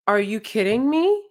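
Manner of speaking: disbelieving, rising question; incredulous. Retold or imitated. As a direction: ask it in total disbelief. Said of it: "Like, just literally like that".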